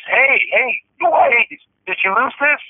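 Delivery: high-pitched mimicked hailing; imitated man calling. Man hails trucker over lost fuel card, imitated high call. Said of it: "this guy goes".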